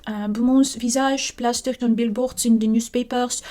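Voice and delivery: mild put-on French accent, reading dramatically; lightly French-flavoured story reading. Reading the murder story aloud in a mild French accent. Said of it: "I have to read it in a French accent".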